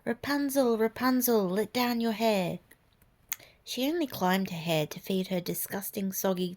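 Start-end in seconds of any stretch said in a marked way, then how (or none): 0.0-2.6 calling out. Acted. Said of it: "by crying out".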